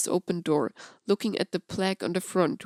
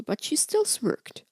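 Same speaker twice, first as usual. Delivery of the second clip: ordinary delivery, nothing marked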